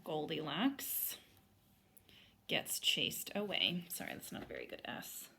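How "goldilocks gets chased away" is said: slow, clear reading back. Shown as a demonstration. Teacher reading the chart back, slow. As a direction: read it back as written. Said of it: "here's how I spelled that".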